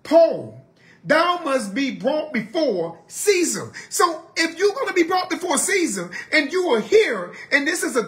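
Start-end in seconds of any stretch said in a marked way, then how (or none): 0.0-3.7 angel's message. Retold or imitated. Preacher acting the angel telling Paul he'll reach Caesar, proclaiming. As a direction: announce it slowly like a heavenly messenger. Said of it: "so the angel said".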